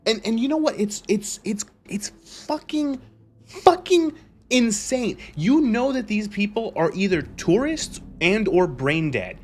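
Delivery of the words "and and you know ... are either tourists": exasperated rant. Real, not acted. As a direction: fume at the absurdity. Ranting about Reddit fans.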